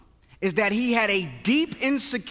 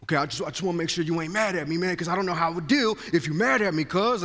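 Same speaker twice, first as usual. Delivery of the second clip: fast, rushed, lightly voiced pleading buddy; a hint of nervous rambling; anxious friend; 3 semitones lower, faster than usual.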